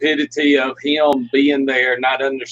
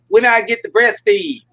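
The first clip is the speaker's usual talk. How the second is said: little puppet voice; 6 semitones higher, 3 dB louder than usual. Retold or imitated. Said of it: "the little puppet goes".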